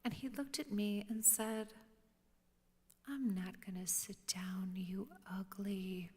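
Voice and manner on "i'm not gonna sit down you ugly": hushed defiant retort. Retold or imitated. Defiant student retold.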